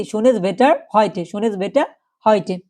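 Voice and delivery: slow, careful teacher model of the phrase; slow German demo. Shown as a demonstration. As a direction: spell it out slowly for learners. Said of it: "ওই দিন বলতে পারেন যে".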